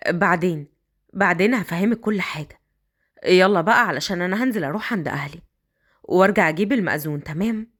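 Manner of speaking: put-on a man coaxing the girl upstairs.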